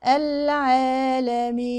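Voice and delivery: slow "العالمين" with the ee leaning toward a; tilted yaa. Shown as a demonstration. Teacher shows the wrong yaa, slowly slanted. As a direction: let the final ee of "العالمين" slacken toward fatha. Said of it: "والياء هنا ما تتميلش للفتح".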